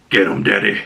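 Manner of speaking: hint of a tough-guy growl on a child's line; lightly mock-gruff little boy; boy with Punisher's voice. Imagining the Punisher's little boy, mock tough voice. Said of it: "little boy with the Punisher's voice".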